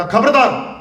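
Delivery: a son retold lashing out in anger; angry son. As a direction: warn her off, heated. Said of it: "ਉਹ ਬੱਚਾ ਗੁੱਸੇ ਵਿੱਚ ਸੀ".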